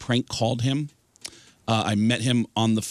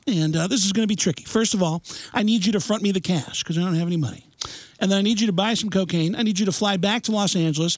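higher Kinison voice building to a shout; Sam Kinison impression; 7 semitones higher than usual. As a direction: Kinison asking for cocaine. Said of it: "it's Sam Kinison".

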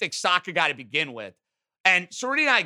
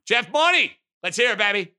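hype call-out; 3 semitones higher, 4 dB louder than usual. Real, not acted. Hype intro calling out co-host.

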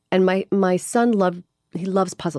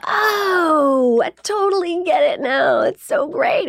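high, bright-eyed rush of relief; giddy, high-pitched relief; excited relief; 10 semitones higher, slower than usual. Retold or imitated. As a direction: gush like it finally clicked. Relief after ADHD diagnosis.

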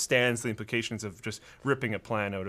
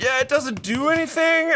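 laughing; 13 semitones higher, 8 dB louder than usual. Real, not acted. Laughing admission.

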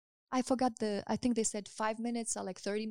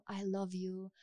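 tender; 8 dB quieter, slower than usual. Shown as a demonstration. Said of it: "look at them, tell them".

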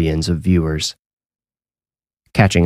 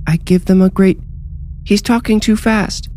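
put-on much higher, eerie little boy; eerie child voice; 13 semitones higher than usual. Spirit speaks through the little boy, much higher eerie child voice. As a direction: say it like a haunted child.

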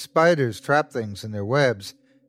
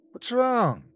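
ticket taker voice; 12 semitones higher than usual. A narrator's reading. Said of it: "interrupted the ticket taker".

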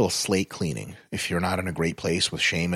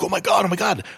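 high, giddy starstruck fan squeal; imitating a starstruck fan, pitched way up; starstruck gushing; 11 semitones higher, 3 dB louder, faster than usual. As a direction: gush like a fan spotting a star. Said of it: "And he'd be like".

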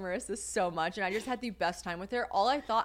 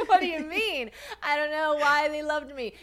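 flustered protest; 7 semitones higher, 5 dB louder than usual. Real, not acted. Protesting compliment loudly.

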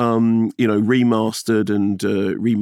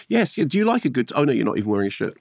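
imitating Linda; much faster than usual. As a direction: mimic Linda, fast and flustered. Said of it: "Linda turned to him and she said".

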